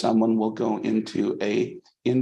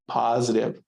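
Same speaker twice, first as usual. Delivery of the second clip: Positive set apart as its own phrase; single out the word Positive, carefully; emphasis on Positive. Real, not acted. Lecturer underlining a key word for students, emphasis on Positive. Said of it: "I want to emphasize that word".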